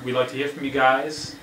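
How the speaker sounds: light Boston accent. Shown as a demonstration. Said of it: "I did the Boston accent".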